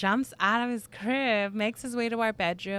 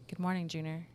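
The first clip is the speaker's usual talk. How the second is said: low man's greeting; 5 dB quieter than usual. Retold or imitated. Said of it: "it was a man's voice".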